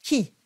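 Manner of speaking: qui said with a hard K sound, no W glide; crisp K at the start of qui. Shown as a demonstration. Vocal coach models qui with a hard K. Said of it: "Qui, like a K sound".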